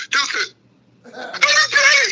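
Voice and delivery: very high, slow drawn-out wail; mock pleading wail. Bouncer mock-pleading with a teary guy, slow high wail. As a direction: stretch it like a pleading howl. Begging not to cry.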